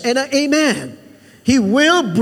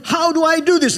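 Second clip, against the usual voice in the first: higher-pitched imitated cry of helplessness; cry from the heart; 4 semitones higher than usual. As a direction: voice Moses' inner cry, pitched up. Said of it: "There's a cry inside his heart".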